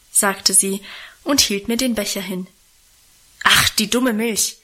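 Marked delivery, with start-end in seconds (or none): 3.4-4.6 mildly angry outburst. A narrator's reading. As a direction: snap it crossly, with some push. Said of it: "rief ich da zornig". (leicht zorniger Ausruf)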